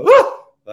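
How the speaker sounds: very high, loud whoop of fright; mock startled scream; imitated startled yelp. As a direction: yelp as if someone just scared you. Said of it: "and they go".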